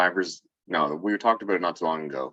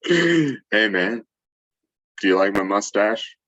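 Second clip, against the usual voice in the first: pickup line voice; 4 dB louder, slower than usual. Pretend. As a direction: sell it like a bad pickup line. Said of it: "That's definitely a pickup line".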